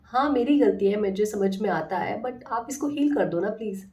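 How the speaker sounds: sweetly coaxing her own hand; tender coaxing self-talk, lightly done; loving coaxing. Retold or imitated. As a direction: plead gently, like soothing a friend. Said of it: "मैं बहुत प्यार से बात करती हूँ".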